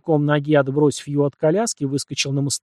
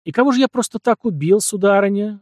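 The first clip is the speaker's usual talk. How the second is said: rising up hot and affronted, higher and louder; sharp demanding question; 7 semitones higher, 5 dB louder than usual. A narrator's reading. Елисей, stung by the accusation, demands an answer sharply. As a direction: fire it back at her, indignant. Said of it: "резко поднявшись, спросил Елисей".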